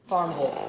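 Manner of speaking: Farmville ending in a short "vul"; Southern pronunciation. Shown as a demonstration. Newcomer showing the local town name, Farmville said as "vul".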